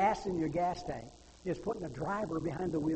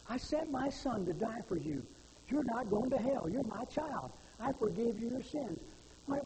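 God pleading; 6 semitones higher than usual. Acted. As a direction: beg as if on your knees, climbing in pitch. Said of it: "It's God on his knees".

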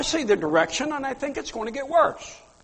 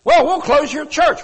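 louder, higher mock official threat; threatening official; 5 semitones higher, 7 dB louder than usual. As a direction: play the government laying down the law. Voicing the government's threat.

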